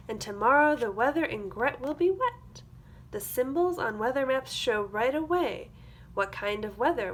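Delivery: put-on lively storybook read for young kids; sing-song picture book reading; reading to children. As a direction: read it like circle time, bright and clear. Reads a picture book aloud.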